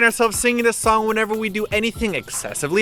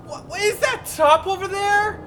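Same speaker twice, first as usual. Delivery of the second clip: fake excited; 11 semitones higher than usual. Fake distraction in skit.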